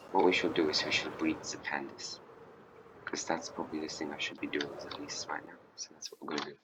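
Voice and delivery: conspiratorial whisper, half to himself. Real, not acted. To viewers, sharing a sneaky plan in a whisper.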